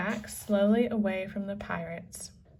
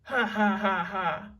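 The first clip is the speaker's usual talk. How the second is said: mean laugh. A narrator's reading. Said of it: "pirates laughed meanly".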